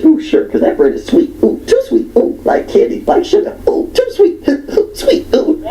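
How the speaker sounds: very high squealing ooh sweet, laughing through it; shrieking picky woman. Retold or imitated. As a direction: squeal like a twitching fussy diner. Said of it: "You want me to bring".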